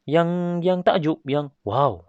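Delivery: "yang takjub, yang wow" pitched very high in wonder; awed exclamation. Shown as a demonstration. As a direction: sing out the "wow" like you're amazed. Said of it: "buat intonasi yang". (nada takjub yang sangat tinggi)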